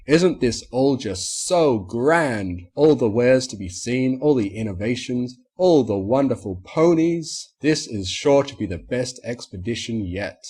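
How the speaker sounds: pompous stallion marvelling at the fair; gushing showman. A narrator's reading. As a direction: savour every "all" like a showman. Marmalade gushes about the expo.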